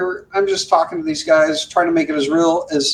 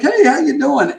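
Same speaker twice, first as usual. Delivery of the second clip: higher-pitched imitated hello; re-enacted friendly greeting; 9 semitones higher than usual. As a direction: greet an old radio pal, playfully. Acts out greeting his friend.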